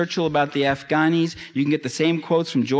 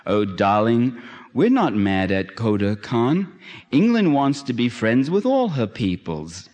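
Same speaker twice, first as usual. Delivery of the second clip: mock tender; 3 semitones lower, slower than usual. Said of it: "The British colonel answers tenderly".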